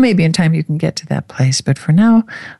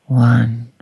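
whisper; 4 semitones lower than usual. Acted. Whispered final count.

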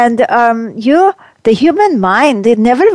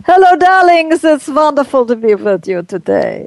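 campy drag queen; 3 semitones higher than usual. Acted. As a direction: sweep in like a grand madame. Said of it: "I can conjure up Madame Mazurka".

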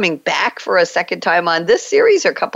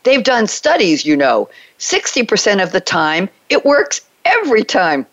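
quoting a movie line; 3 semitones higher than usual. Retold or imitated. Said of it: "So here is the quote".

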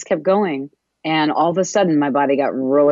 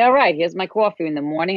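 lightly put-on chatty voice to a business; a hint of talking sweetly to a pet; mock sweet talk over morning coffee; cutesy talk; 3 semitones higher than usual. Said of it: "I talk like this to it".

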